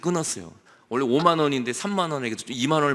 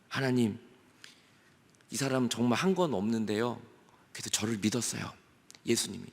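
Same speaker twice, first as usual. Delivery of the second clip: pleading Jesus; 4 semitones lower, 5 dB quieter than usual. Acted.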